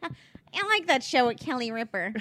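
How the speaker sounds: mock Brooklyn mom; New York accent. Daughter imitating mom about a TV show, Brooklyn accent. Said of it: "It's such a New York thing".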